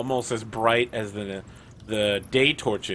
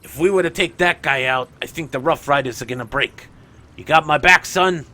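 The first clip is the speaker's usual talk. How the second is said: Tenebris. Acted. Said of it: "Tenebris is turning to Simon and is like".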